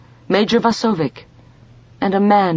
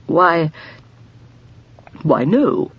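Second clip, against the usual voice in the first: astonished; 2 semitones higher, slower than usual. A narrator's reading. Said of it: "in an astonished voice".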